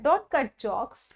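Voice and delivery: drawn out very slowly word by word; slow teaching demo. Shown as a demonstration. Teacher modelling the English for students, very slow. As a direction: stretch each word so learners catch it. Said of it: "joke से पहले आपको use करना है cut".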